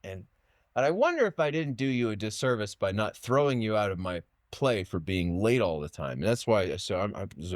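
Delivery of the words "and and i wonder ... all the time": imitating teacher. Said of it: "I remember him saying".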